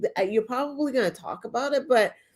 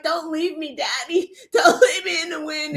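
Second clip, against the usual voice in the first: mock pleading; 4 semitones higher than usual.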